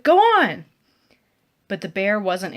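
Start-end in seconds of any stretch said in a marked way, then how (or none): 0.0-0.6 higher, louder yell; shouted. A narrator's reading. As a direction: drive it away with a yell. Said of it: "I shouted".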